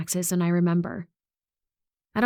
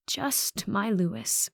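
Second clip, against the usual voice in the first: sad; 3 semitones higher, 5 dB quieter, much slower than usual. Acted. Grieving grandmother says only grandson.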